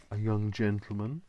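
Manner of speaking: suggestive, seedy lilt rising at the end. Pretend. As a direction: let it rise with a mock-seedy innuendo. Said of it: "don't know why to say it like that".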